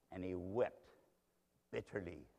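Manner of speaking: very soft, low, grave narration; hushed sorrow. A narrator's reading. Preacher telling of Peter weeping bitterly, hushed sorrow.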